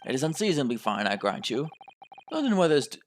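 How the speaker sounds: grudging British policeman; gruff British inspector. Acted. Inspector grudgingly grants the weather is fine, gruff British. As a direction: concede it gruffly in a British accent.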